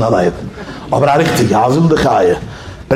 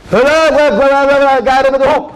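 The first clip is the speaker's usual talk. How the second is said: panicked pleading; 11 semitones higher than usual. Retold or imitated. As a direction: beg the lion to stop. Trainer pushed over by lion.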